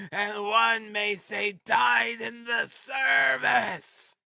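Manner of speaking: very high-pitched, drawn-out ranting; shouting. A narrator's reading. Frantic widow refusing to go home, shouting. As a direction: wail it out in a high, overwrought shout. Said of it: "she shouted, speaking fast, panting and coughing".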